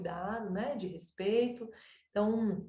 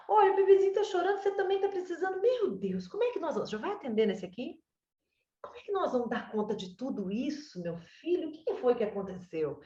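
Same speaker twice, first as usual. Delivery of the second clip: higher, fast, hammed-up fluster over the crying baby; mother juggling the baby and the older son, mock flustered; playful fussy mom; 6 semitones higher than usual. Shown as a demonstration. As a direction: play the overwhelmed mother, quick and high. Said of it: "Então, você fala".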